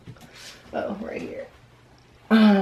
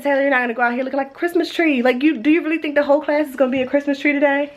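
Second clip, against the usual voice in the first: exasperated scolding; 5 semitones higher, much faster than usual. Retold or imitated. Mom retells scolding her daughter.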